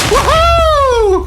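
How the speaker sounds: long high-pitched "woo-hoo"; drawn-out squealing cheer; excited whoop. Real, not acted. Thrilled at testing the bow.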